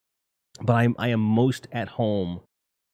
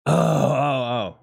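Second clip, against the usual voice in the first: startled oh; 5 semitones higher, 3 dB louder, much slower than usual. Real, not acted. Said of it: "Got a little impassioned there".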